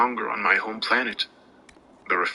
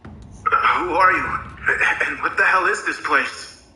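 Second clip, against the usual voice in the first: higher, slow, shaken question; stuttering fear; 8 semitones higher than usual. A narrator's reading. Narrator wakes captive and demands answers, frightened and stuttering. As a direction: force the words out through terror. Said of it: "stuttered out my words".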